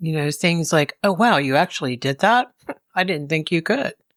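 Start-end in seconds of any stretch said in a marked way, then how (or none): 1.0-3.9 mock sarcastic tone. Giving an example of a backhanded compliment: imitating a sarcastic dig. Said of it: "like sarcasm, backhanded compliments, little digs".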